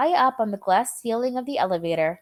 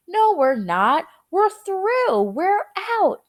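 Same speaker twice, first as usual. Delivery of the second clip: high, loud joyful answer; triumphant shout; 10 semitones higher, 4 dB louder, slower than usual. A narrator's reading. Wonka answers Grandpa Joe triumphantly, high and loud. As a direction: cheer that they've made it. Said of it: "Mister Wonka shouted".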